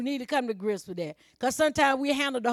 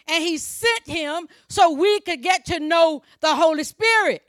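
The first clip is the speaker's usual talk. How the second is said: raised, forceful pulpit delivery; emphatic preaching; 4 semitones higher, 6 dB louder than usual. Real, not acted. Preacher correcting the congregation's praying, emphatic preaching. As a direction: drive the point home to the congregation.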